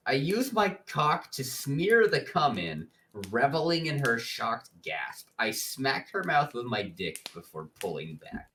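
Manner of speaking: measured dramatic book reading; narrating a steamy novel aloud; story narration. A narrator's reading. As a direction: read it out as a narrator, line by line.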